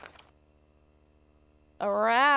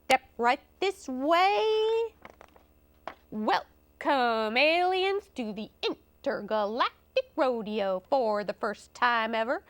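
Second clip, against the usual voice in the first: lightly voiced rodeo barker; a touch of ringmaster swagger; cowboy rodeo announcer. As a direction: lightly play a showman drumming up the crowd.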